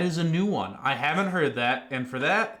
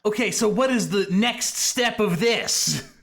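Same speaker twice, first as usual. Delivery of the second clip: loud sharp voice; 4 semitones higher, 3 dB louder than usual. Acted. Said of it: "why are you yelling?".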